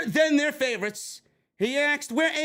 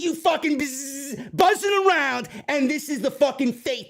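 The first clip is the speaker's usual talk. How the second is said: angry yell; 4 semitones higher, 3 dB louder than usual. Real, not acted. Swatting the fly, yelling.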